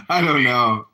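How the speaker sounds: raspy voice. Acted. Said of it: "why don't you just use your normal voice".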